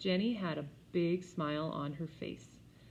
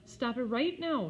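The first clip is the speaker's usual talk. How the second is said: sharp, raised scolding; mild angry mother; 7 semitones higher, 5 dB louder than usual. A narrator's reading. Mother scolding jumping kids, sharp and louder. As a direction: stop them jumping, firmly. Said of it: "she was mad".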